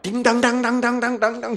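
rapid-fire high ringing imitation; loud clanging bell noises by mouth; imitated jackpot bell. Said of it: "종을 치고".

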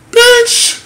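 a single word flung out way up high; outraged exclamation. Real, not acted. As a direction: spit it out in disbelief. Outraged reaction to agent.

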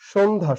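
two clear syllables in সন্ধ্যা, shon then dha; correct pronunciation. Shown as a demonstration. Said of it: "সঠিক উচ্চারণ হচ্ছে সন্ধ্যা".

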